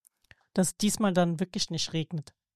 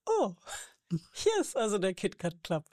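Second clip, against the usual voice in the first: Worte mit einem Lachen; lachend, als sie den Club erkennt; lachend erzählt. Retold or imitated. Gedanke zitiert, lachend. (lachend gesagt)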